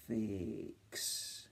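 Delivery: "Fix" stretched out, each sound apart; segmented slowly. Shown as a demonstration. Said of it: "say the word nice and slowly".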